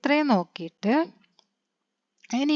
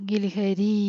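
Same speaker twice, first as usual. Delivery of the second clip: ഗിൽഹരി said very slowly, syllable by syllable; slow demo reading; much slower than usual. Shown as a demonstration. Teacher reading an example word to pupils, very slow. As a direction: spell out ഗിൽഹരി slowly for children. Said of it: "ഈ".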